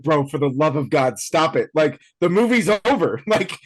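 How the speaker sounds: mock pleading, pitch climbing steadily; exasperated plea. Retelling a plea to Austin Butler, exasperated. Retold plea to actor keeping accent.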